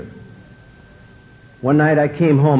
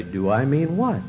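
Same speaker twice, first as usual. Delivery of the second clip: sarcastic. Retold or imitated. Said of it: "sarcastic routine".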